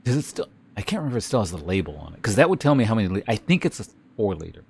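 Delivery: talking through hiccups; hiccuping between words. Real, not acted. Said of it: "I got the hiccups now".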